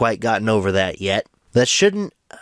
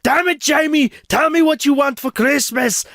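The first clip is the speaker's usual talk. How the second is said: hammed-up exasperated yell, pitched way up; angry parent; 3 dB louder than usual. Parent losing patience with Jamie over Christmas, angry shouting. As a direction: blow up at the child, high and loud. Skit, parent loses temper at child.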